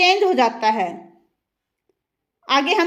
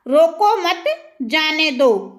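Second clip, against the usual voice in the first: "रोको मत" together, pause, then "जाने दो" falling; pause after मत; much slower than usual. Shown as a demonstration. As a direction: keep मत with रोको, break before जाने. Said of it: "अब जो ये विराम चिन्ह लगाते हैं".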